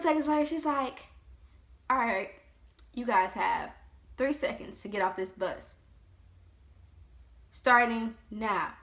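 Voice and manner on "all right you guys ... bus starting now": yelling drill instructor. Retold or imitated. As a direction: start firm, then explode into a full yell. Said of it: "she started yelling".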